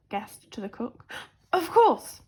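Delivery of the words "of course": gasped. A narrator's reading. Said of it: "gasped the cook".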